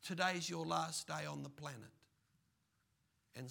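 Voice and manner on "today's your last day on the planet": a touch of stern divine judgement; God's verdict. Acted. God telling the rich fool his time is up, stern. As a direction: pronounce the sentence firmly. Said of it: "And then God says".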